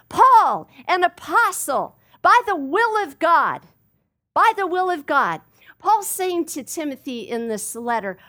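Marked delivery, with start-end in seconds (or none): 0.1-3.7 loud, ringing declaration of identity; bold proclamation. Retold or imitated. Preacher voicing Paul to Timothy, loud and sure. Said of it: "Paul says". 4.3-5.4 emphatic repeat. Acted.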